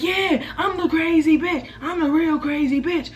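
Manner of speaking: high, slow laughing brag in her voice; mock laughing taunt. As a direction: gloat through a laugh, a bit hammed-up.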